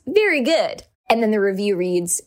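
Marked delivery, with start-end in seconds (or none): 0.1-0.8 all caps. Shown as a demonstration. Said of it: "in all caps".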